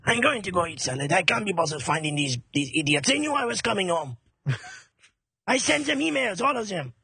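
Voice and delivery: grumbling mock-French accent; put-out French-accented tiger; giving-up tiger. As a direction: complain in a comic French accent. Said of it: "He gives up".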